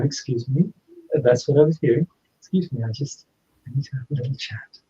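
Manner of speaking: politely interrupting, voice softening toward the end; retold polite, unobtrusive request. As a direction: excuse yourself courteously and gently. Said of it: "very politely, saying".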